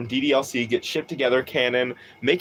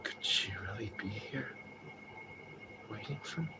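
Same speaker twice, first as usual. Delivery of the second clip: breathy whisper, much softer; own whispered version; 4 semitones lower, 21 dB quieter than usual. Shown as a demonstration. Streamer demonstrating their own take on James's line, whispered. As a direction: whisper it like you barely dare ask. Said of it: "the way I do it is just like".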